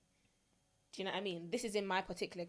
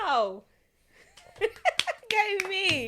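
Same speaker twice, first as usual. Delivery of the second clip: loud, high cheer with a laugh; self-congratulation; 12 semitones higher, 13 dB louder, much slower than usual. Real, not acted. Host amazed at her own progress, loud cheering. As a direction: cheer yourself on, delighted.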